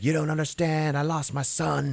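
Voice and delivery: high, strained plea of a bereaved father; mock anguish. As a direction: imitate someone pleading through grief. Imitating grieving father pleading with women.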